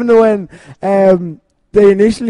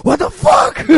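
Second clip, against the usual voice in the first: high, shocked yelp of disbelief; mock startled outburst; slower than usual. Host acts out reacting to the scary scene, mock shock. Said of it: "'cause it's just like".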